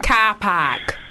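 put-on slow, careful Cardiff accent on "car park"; attempted Cardiff accent. Host testing her accent on the guest, attempted Cardiff accent. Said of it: "Was that good?".

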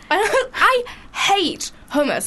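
giggling disgust; laughing. Real, not acted. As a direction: say it laughing, slowly. Laughing hate.

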